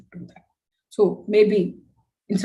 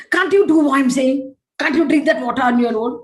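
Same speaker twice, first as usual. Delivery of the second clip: frustrated parent scolding; 3 semitones higher, 4 dB louder than usual. Retold or imitated. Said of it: "One tone".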